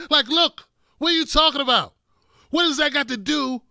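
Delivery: exasperated loud. Real, not acted. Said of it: "exasperated rant".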